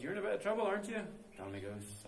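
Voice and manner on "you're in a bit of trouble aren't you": fairy's voice. Retold or imitated. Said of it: "Fairy goes".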